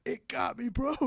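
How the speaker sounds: high, strained mock panic; retelling his panic. Diver retelling to a coworker how he yelped, mock panic. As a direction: replay the scare up high. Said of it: "I went".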